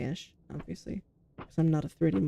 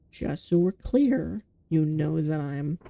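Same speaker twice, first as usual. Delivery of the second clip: slow, careful clarifying; slower than usual. Retold or imitated. Quotes own careful disclosure.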